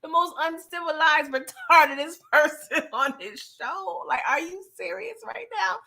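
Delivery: incredulous scolding. Real, not acted. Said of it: "I said".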